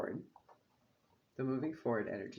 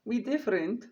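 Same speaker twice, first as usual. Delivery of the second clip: high, loud mock Greek accent, getting louder; terrible Greek accent; 10 semitones higher, 6 dB louder than usual. Card reader quoting the wedding dad in a bad Greek accent. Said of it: "my terrible Greek accent".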